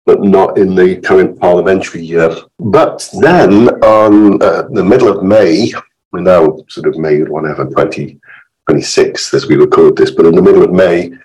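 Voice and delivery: hoarse, croaky from illness; rough, croaky voice getting over illness. Real, not acted. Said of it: "my croaky voice".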